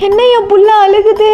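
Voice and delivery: playfully amazed relative; mock amazement. Acted family amazed at groom crying.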